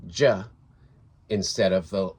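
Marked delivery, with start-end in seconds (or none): 0.1-0.4 "J" as the sound juh; "J" voiced as a short juh; letter sound. Shown as a demonstration. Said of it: "the letter J".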